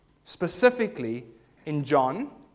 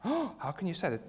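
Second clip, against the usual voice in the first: mock shock; 5 dB quieter than usual. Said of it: "it's a tough crowd this morning".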